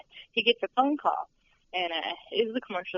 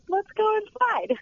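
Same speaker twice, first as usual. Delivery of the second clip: high, slow sing-song mischief; playful nosy; 13 semitones higher, slower than usual. Retold or imitated. Guide sneaking into an open door, high playful mischief.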